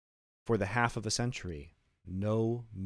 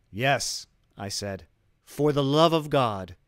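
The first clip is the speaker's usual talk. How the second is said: mocking echo; 4 semitones higher, 7 dB louder than usual. Montresor echoes the plea mockingly.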